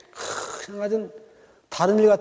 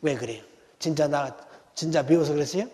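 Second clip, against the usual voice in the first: flustered son; 3 semitones lower than usual. Retold or imitated. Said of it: "당황해버린 거예요".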